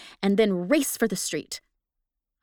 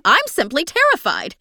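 scared woman answers the ghost in terror; terrified; 8 semitones higher, 10 dB louder than usual. A narrator's reading. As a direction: force the words out in terror. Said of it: "speaking instinctively".

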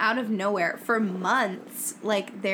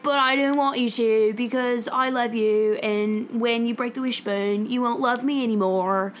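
mock pleading; 4 dB louder than usual. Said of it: "he's like".

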